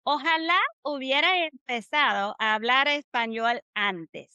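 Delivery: Ojalá hubiera empezado a hablar español antes in linked, rhythmic Spanish; model phrase rhythm. Shown as a demonstration. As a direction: model the whole Ojalá phrase with words flowing together. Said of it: "the phrase should sound like this".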